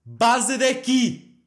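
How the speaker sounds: shrill, slow furious yell to get out; mum yelling. Retold or imitated. Mum yelling at her son to get out, furious scream. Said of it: "E a mãe só gritou".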